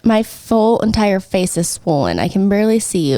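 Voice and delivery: talking through a blocked nose; stuffed-up nose, sick voice. Real, not acted. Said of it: "I can't breathe out of my nose".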